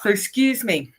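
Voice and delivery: through a yawn; stifling a yawn. Real, not acted. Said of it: "all I want to do is yawn".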